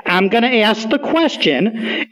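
slow, carefully spelled-out words; over enunciating. Shown as a demonstration. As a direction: say each word slowly and clearly. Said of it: "I'll say it slower".

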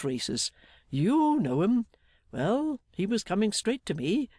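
lightly voiced hearty storyteller, lilting and emphatic; jolly Mister Meagles. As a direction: recount the adventure with a touch of bustle. Voices Meagles telling his tale.

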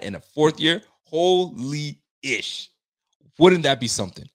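fan working himself up; real mounting excitement at the dream; getting excited. Real, not acted. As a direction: savour it, stretching out the exclamation. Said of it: "I'm getting myself excited".

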